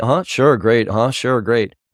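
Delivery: loud, rote, distracted half-listening replies. Imitating an executive pretending to pay attention during a demo: imitating a distracted, disengaged listener. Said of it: "you pretend like you're actually paying attention".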